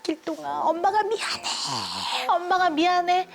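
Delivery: high, crying plea to her son; wailing apology. Retold or imitated. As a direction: sob it out, mother begging forgiveness. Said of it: "소리소리를 지르면서 목 놓아 울면서". (울부짖듯 높게 사과하기)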